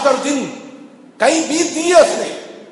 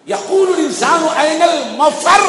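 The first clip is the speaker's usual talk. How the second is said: slow, higher Quranic recitation, called out; slow recited outcry; crying out; 4 semitones higher, slower than usual. Acted. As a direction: draw out the verse as a rising cry. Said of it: "پکار کر کہے گا".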